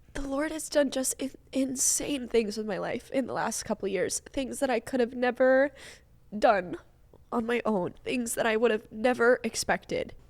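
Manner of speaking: speaking through tears, tearful crying voice. Apologizing for their crying voice while still speaking; crying voice. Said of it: "my crying voice is so, I'm so sorry".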